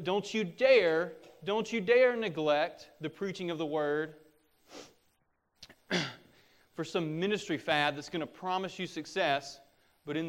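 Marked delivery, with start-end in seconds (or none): 0.0-4.1 emphatic, drawn-out "dare"; forceful preacher's admonition; stern warning. Real, not acted. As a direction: warn them firmly, leaning on "dare". Stern warning to future pastors.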